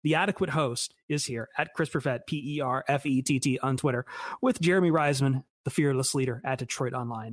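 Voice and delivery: out of breath from jogging; winded, catching breath between phrases; gasping for air. Real, not acted. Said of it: "If I sound winded, it's because I am".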